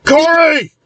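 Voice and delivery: high-pitched distant-style scream of a name; high, drawn-out cry for help. A narrator's reading. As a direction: scream it out high, holding the note. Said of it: "Corey is heard screaming in the background".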